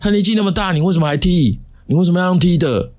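high, shrill-free outraged yelling at the dog walker; retold angry yell. Dog owner yelling at the narrator for kicking his dog, angry high yell. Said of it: "他就哇大吼".

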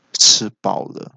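慢而轻的气声; 吊足胃口后淡淡一句; 轻声说吃饱了. A narrator's reading. 弱女生慢吞吞开口. (轻声缓慢的一句)

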